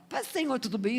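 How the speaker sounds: mock greeting. Imitating churchgoers' breezy greeting.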